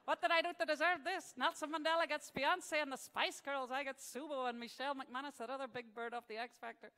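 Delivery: loud, aggrieved mock Italian accent; hammed-up Italian-sounding Pope, starting high and easing off; bad Italian-accented Pope. Pope grumbling about a singer, mock Italian accent. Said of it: "I can't do a German accent".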